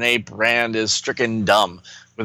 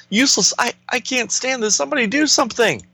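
panicked hero; 13 semitones higher than usual. Acted.

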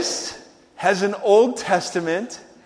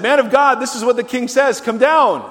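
lightly acted summons, raised pitch and volume; commanding captain; 5 semitones higher, 5 dB louder than usual. Second captain to Elijah, lightly voiced command. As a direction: relay the royal order loudly.

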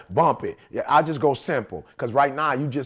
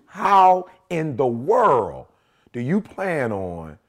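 slow, deliberate retold reprimand, word by word; measured, lower-pitched scolding with weighty pauses; wife's stern lecture; 4 semitones lower, slower than usual. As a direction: spell it out like a fed-up wife. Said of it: "My wife said to me".

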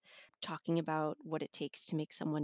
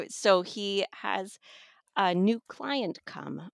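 laughing; 5 dB louder, slower than usual. Real, not acted. Laughing while describing the book.

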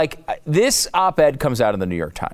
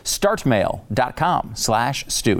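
very slow URL read; much slower than usual. Acted. Repeats URL slowly.

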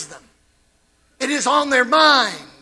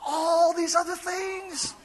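slow emphatic; 3 semitones higher, 6 dB quieter, slower than usual. Shown as a demonstration. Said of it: "say it with me".

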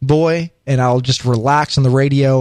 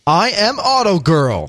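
slow, drawn-out announcer intro; mock announcer; 2 semitones higher, slower than usual. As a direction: stretch it out like a show announcer.

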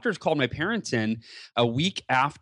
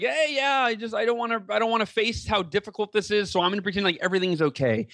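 high, breezy mock-casual voice; mock carefree denial; 6 semitones higher than usual. Doctors voicing Hal's denial, high breezy mock-casual. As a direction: brush it off lightly, like nothing's wrong. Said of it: "he's just like".

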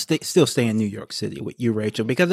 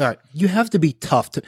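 put-on New York accent; 3 semitones higher, faster than usual. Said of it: "so I say in my New York voice".

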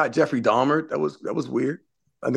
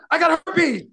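mock drunk guy; slower than usual. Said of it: "he was like".

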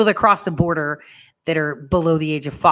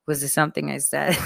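much softer, faux-innocent aside; mock innocence; 3 semitones lower, 8 dB quieter than usual. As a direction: play dumb under your breath. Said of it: "I was like".

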